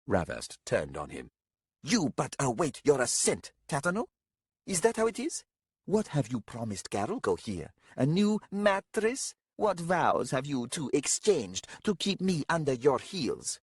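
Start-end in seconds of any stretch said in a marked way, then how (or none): 1.8-13.6 high, indignant interrogation; suspicious young leader. A narrator's reading. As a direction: accuse them both of plotting.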